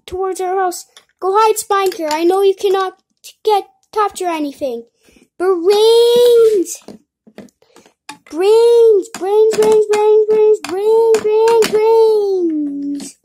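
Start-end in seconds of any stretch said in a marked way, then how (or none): 5.4-13.2 louder, rapid repeated name calls; repeated calling. Acted. Kid calling the character again and again, loud and urgent. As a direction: keep calling him back.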